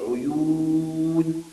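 عيون with the و held very long, half sung; stretched long vowel. Shown as a demonstration. Teacher pointing at the word for the class, holding the long و. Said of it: "طبعًا دي فيها مد بالواو".

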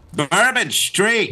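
mock Cajun accent. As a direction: stretch it like a hammy Cajun. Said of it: "slide in and out of this offensive accent".

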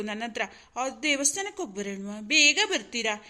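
sing-song mock pleading, stretched at the end; mocking mimicry. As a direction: throw her request back mockingly. Husband mimics wife's earlier request.

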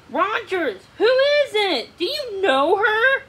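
high, loud, demanding queen. A narrator's reading. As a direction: press him for an answer.

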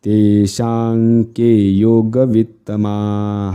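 slow, drawn-out Sanskrit chant; slow recitation. Shown as a demonstration. Teacher drills the half verse, slow sustained chant. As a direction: hold each long vowel steadily.

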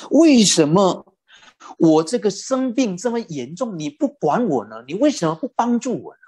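pleading complaint. Retold or imitated. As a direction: ask why she won't help, hurt and reproachful.

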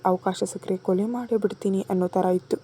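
plain reading voice

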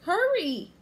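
high, loud urgent call; calling back. A narrator's reading. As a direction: call back to someone lagging behind. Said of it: "Annie called back to him".

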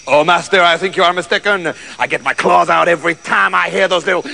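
lightly voiced cat, obsequiously objecting; hint of a cat pleading its case; protesting cat. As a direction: politely correct the master.

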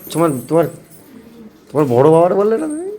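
loud coaxing call. Real, not acted. Prompting child to speak.

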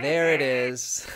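slow, high, lightly croaked witch voice; a hint of an old hag. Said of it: "There's that witch laugh".

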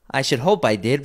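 put-on slightly high boy's voice; lightly voiced young lad; a hint of a cheeky boy. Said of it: "replied the lad".

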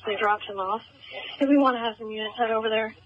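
crackly radio transmission; clipped call over a police radio; terse radio update. Real, not acted. Field unit over police radio.

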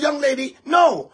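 put-on high, loud scolding "Young lady, no"; a stern high shout. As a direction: call her out sharply. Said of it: "I said".

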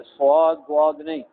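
स्वाद with rounded lips, like बुआद; wrong rounded version. Shown as a demonstration. Teacher showing pupils the rounded-lip mistake. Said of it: "ये गलत है".

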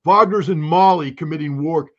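mock dumb American parroting; dumb American accent. Critic repeating the only thing they can say, dumb American accent. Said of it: "my worst dumb American accent".

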